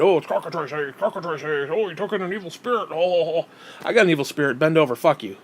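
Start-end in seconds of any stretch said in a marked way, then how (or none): 0.0-3.5 wobbly put-on wailing voice; hammed-up babbling alarm; mock pastor hysteria. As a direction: ridicule a preacher fretting over spirits. Mocks talk of evil spirits.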